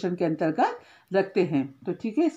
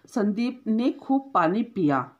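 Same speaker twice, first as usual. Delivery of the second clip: slow example reading; slower than usual. Shown as a demonstration. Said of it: "कैसा, कितना पानी पिया उसने".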